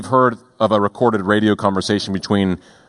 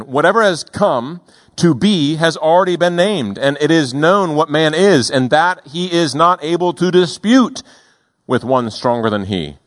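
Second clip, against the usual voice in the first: reading the verse out, a touch raised; scripture reading; 4 semitones higher than usual. Acted. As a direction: read scripture with gentle weight. Reads scripture aloud.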